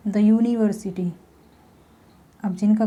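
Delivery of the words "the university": "the" as duh, "university" slowly with a yoo start; slow demo. Shown as a demonstration. Teacher slowly shows the yoo consonant sound. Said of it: "यू का sound यहाँ पर ये आ रहा है".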